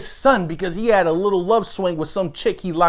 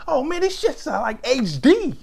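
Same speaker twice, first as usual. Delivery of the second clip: much higher, hammed-up whiny voice; mock squinting complaint; 10 semitones higher than usual. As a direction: squeak it out like an old man who can't see. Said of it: "'Cause he was like".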